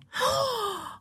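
sharp high gasp of fright; frightened gasp. A narrator's reading. Wife gasps at husband's war tale, frightened gasp. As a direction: catch your breath in alarm.

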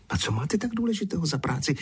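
high, quick squeal; squealed question. A narrator's reading. Zuzka challenges the idler about his work, squealing. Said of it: "vypískla Zuzka".

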